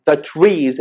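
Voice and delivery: TREES stressed as the key word; emphasis on TREES. Shown as a demonstration. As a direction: lean on TREES to single it out. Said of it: "emphasizing on the, on the word tree".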